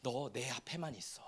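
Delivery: put-on God quietly inviting his child; God's soft voice. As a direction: speak it gently and close. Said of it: "하나님이 주시는 복은 뭐예요?".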